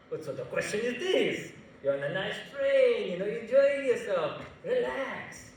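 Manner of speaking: lightly acted dismissive reassurance; imitated train attendant. Attendant telling a questioning passenger to relax, mildly exasperated. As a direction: brush off the passenger's worry. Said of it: "you're asking the guy".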